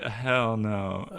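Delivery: joking refusal that is partly meant; half kidding, half serious. Retold or imitated. Counselor refusing in front of the kids, half kidding. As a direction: turn it down, only half joking. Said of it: "half kidding, half serious hell no's".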